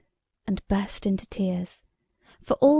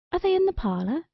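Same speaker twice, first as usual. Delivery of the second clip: queen voice; 9 semitones higher, faster than usual. A narrator's reading. Queen asks the maid.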